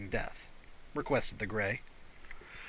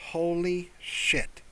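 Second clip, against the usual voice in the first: awed; 5 semitones higher, much slower than usual. Acted. Awed at meeting alien.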